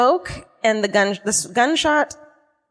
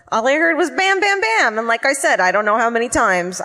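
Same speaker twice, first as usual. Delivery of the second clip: mock Milwaukee accent; 3 semitones higher than usual. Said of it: "I don't know what a Milwaukee accent sounds like".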